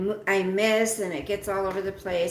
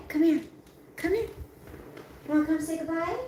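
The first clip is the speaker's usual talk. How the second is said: talking to a dog; 3 semitones higher than usual. Real, not acted.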